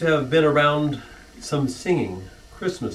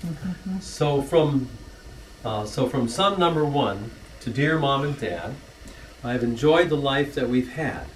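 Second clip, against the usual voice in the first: rhythmic rhyming verse, read as a toast; poem recital. Acted. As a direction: recite the family poem with a gentle lilt to the rhymes. Reads rhyming anniversary poem.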